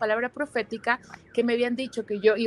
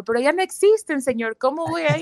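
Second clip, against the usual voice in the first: higher and louder pleading objection; mild mock protest to the Lord; incredulous protest; 5 semitones higher, 4 dB louder than usual. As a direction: push back in disbelief. Retells protest to God.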